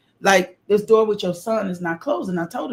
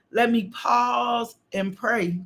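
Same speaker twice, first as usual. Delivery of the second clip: preaching shout; 4 semitones higher, much slower than usual. Real, not acted. Preaching at full force.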